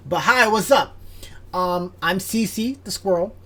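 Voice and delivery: a squirrel waving hello. Acted. DM voices Cece.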